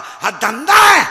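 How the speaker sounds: put-on preacher thundering at the crowd to condemn the boys' racket; slow preaching shout. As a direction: roar it at the crowd. Climax of sermon denunciation.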